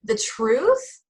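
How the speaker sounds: high, hammed-up Southern charm; Southern drawl. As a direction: pour on a mock Southern drawl. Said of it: "I can start the Southern drawl in it too".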